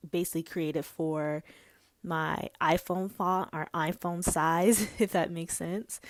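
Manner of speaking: breathless, gasping between phrases; winded, catching breath mid-sentence. Real, not acted. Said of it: "Whew, I don't know why I'm out of breath".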